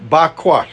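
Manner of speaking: Bakwash repeated carefully as bah-KWAHSH; pronouncing Hebrew. Shown as a demonstration. Preacher repeats the Hebrew word for listeners, careful pronunciation. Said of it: "That's just the way I pronounce it".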